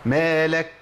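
مالك with a light breath released on the k itself; correct hams. Shown as a demonstration. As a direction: end مالك on a clean aspirated kaf, no h. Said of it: "هو ده الهمس".

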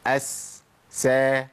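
short hissed "أس" then open "سا"; demonstrated seen. Shown as a demonstration. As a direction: sound out "أس، سا" with a light, thin s. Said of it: "أقول".

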